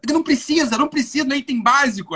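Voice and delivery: building to a loud indignant scold. Retold or imitated. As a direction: scold the shoppers, rising angrily. Imitating indignant store manager.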